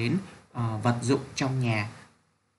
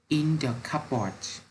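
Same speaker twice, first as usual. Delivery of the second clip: slow model reading; 3 semitones higher than usual. Shown as a demonstration. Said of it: "Nào các em cùng đọc nhé".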